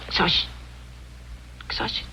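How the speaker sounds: "Xoch-" broken off after the first syllable; halting attempts at "Xoch-", never finishing the word; stumbling pronunciation. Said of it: "you pronounce it better than I do".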